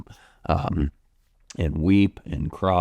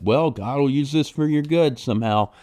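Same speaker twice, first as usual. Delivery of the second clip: higher, breezy mock reassurance; insensitive platitude; 8 semitones higher than usual. Pastor mimicking a tactless comforter, airy and higher. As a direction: toss it off like an easy answer. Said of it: "That's so insensitive".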